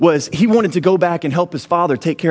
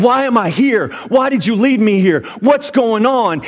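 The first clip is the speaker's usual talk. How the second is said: higher, pleading mock cry at God; mock desperate cry; 4 semitones higher than usual. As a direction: cry out to God in pretend despair. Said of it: "you start screaming".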